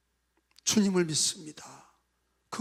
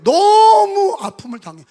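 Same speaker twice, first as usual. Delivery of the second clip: anguished cry; 12 semitones higher, 11 dB louder than usual. Acted. Preacher stresses Job's pain.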